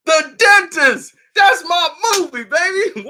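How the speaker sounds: real delight; excited. Real, not acted. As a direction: shout out the favorite movie. Hyping favorite movie.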